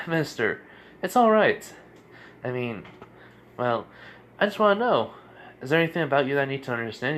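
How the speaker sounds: lightly voiced child, pitch jumping up; a hint of an earnest boy ruler; kid emperor. Kid emperor questioning the newcomer, lightly voiced child. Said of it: "well, basically the kid".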